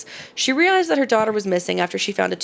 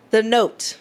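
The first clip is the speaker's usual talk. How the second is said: normal talking voice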